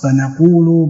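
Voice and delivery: "فنقول" said fa-naqulu, with an n; variant reading with nun. Shown as a demonstration. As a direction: read "فنقول" with nun in place of ya. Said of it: "بالنون". ("فنقول" بالنون)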